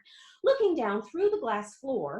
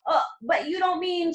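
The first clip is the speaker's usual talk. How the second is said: alarmed shout; 6 semitones higher, 3 dB louder than usual. A narrator's reading. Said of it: "shouted Grandpa Joe".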